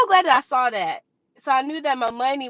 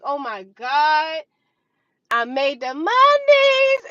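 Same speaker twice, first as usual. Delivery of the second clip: excited disbelief; 4 dB louder, slower than usual. Retold or imitated. Retelling joy in bathroom disbelief.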